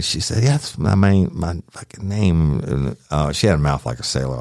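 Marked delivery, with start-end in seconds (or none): 0.4-2.6 just a touch of her attitude; lightly voiced woman. Deputy quoting her answer, lightly voiced attitude.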